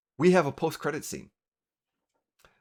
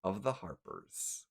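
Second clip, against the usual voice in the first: slow, suspenseful narration with long pauses; game master scene setting; 5 semitones lower, 5 dB quieter than usual. A narrator's reading. Game master revealing the Harper pin to players, suspenseful narration. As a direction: draw out each detail toward the reveal.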